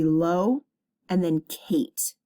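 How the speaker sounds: low, then Kate, as separate beats; divided into syllables. Shown as a demonstration. Teacher showing where locate divides, syllable by syllable. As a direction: pause between low and Kate to show the syllables. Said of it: "divide this into syllables".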